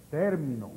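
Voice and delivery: TÉR-mi-no, falling away; accent the first syllable of "término"; "término" stressed up front. Shown as a demonstration. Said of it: "perdón, termino grave".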